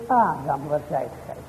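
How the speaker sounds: soft, low "waar zijt gij" said quietly to himself; barely spoken, dropped low, no calling at all; not called out. Shown as a demonstration. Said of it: "dan zegt hij nog niet eens". (zacht en laag, niet geroepen)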